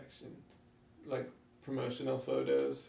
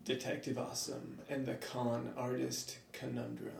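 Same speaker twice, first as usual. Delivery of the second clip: announcer voice; 6 dB quieter than usual. Shown as a demonstration. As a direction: announce the title like a movie trailer. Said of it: "you have a great announcer voice. Why don't you, uh, do the honors?".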